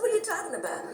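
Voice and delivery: high, disbelieving retort; incredulous. Retold or imitated. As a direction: throw the question back in disbelief. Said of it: "I said".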